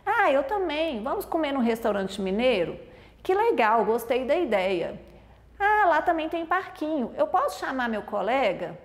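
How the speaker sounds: high-pitched opening on each turn, then settling; lightly acted enthusiastic reply; eager dialogue turns. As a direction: act out a keen back-and-forth chat. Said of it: "por exemplo, um conversa, o outro responde".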